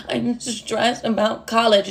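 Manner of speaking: slow, broken imitation of sobbing; mock bawling. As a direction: blubber it slowly, as if crying to mom. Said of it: "bawling my fucking eyes out on the phone".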